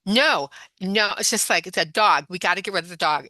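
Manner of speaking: flipped out. Retold or imitated. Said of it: "she was just flipped out".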